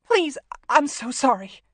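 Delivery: slow, high, loud plea; drawn-out, frightened apology; begging. A narrator's reading. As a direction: beg desperately for mercy. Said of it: "begging him".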